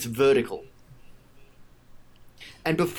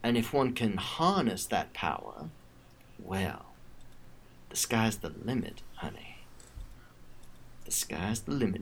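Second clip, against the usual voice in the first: menacing villainess; 5 dB quieter than usual. Acted. Villain explains scheme to captive.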